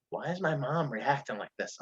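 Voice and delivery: softly voiced inner question; talking to oneself. Son asking himself about his mom's reaction, softly musing. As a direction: quietly puzzle it over to yourself. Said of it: "I was saying to myself".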